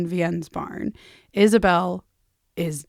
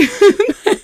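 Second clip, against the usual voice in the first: high burst of laughter; bright laugh; 14 semitones higher, 10 dB louder than usual. Real, not acted. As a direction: laugh out loud, delighted. Laughs after bye.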